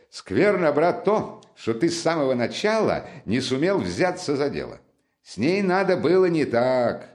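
excitable friend recounting his exploits; lively Razumikhin. Acted. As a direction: pour out the tale with eager emphasis.

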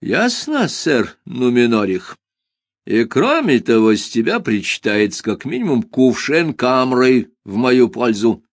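teasing, sly aside; sarcastic. Acted. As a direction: needle him with a sly remark. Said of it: "ехидно вставил я".

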